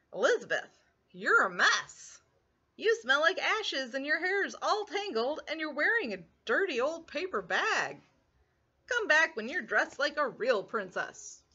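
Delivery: lightly voiced prince looking down on her; snooty prince. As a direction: scold her as a vain prince. Prince Ronald speaks.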